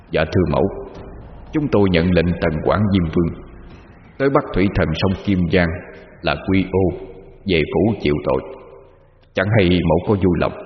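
low, hushed ghostly deference; a soul-catching demon bowing low; respectful demon. Acted. Demon envoy humbly addresses the Mother in a low voice. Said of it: "chắp tay cung kính trước mẫu mà bạch".

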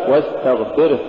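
واستغفره with a short breathed h; balanced final ha. Shown as a demonstration. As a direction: end واستغفره on a brief h. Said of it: "الصواب".

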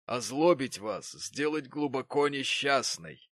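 put-on slow, grave old man's voice; old Martin. A narrator's reading. Old Martin slowly warns Mary about marriage. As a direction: warn her gravely and slowly.

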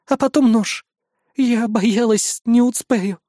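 high, slow shaky confession; tearful, calming down. Acted. Rina admits to the hero she feared being too late. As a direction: still near tears. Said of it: "акцент стал почти незаметным".

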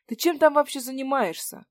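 loud, high indignant demand. Acted. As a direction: snap at her, outraged. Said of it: "негодуя".

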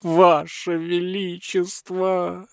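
high, slow drawn-out plea; pleading butler. A narrator's reading. Butler begs the tsar, high and drawn out. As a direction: stretch the address out, begging. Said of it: "взмолился прохиндей".

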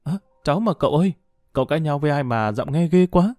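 put-on a bright young girl, taken aback, chattering quickly; sweet clear girl's voice. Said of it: "Giọng nói thánh thót của Lan". (giọng cô cháu thánh thót, ngạc nhiên, nói nhanh)

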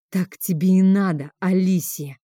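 usual speaking voice

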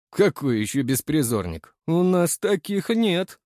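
a thug turning guarded; wary thug. A narrator's reading. Thug grows wary at the cook's answer, slow and suspicious. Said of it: "насторожился амбал".

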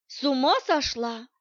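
ordinary delivery, nothing marked

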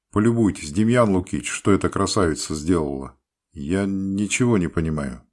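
loud, exasperated outburst. A narrator's reading. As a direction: vent it loudly to the feldsher. Doctor exasperated, calling feldsher.

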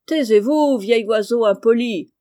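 put-on cross old lady scolding a bird; exasperated elderly aunt telling the parrot off. A narrator's reading. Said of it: "dit la vieille dame exaspérée".

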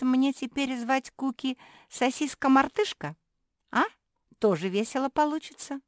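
high, loud, lively character voice; giggly little pug, teasing. Acted. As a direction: chatter gleefully in a high voice.

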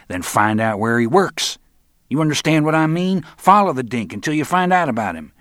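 loud, high-pitched exasperation; impatient orders. A narrator's reading. Roland impatiently orders Jesus about.

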